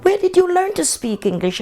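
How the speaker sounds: retold question voiced high and prim; imitating English woman. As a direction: play the puzzled Englishwoman quizzing her.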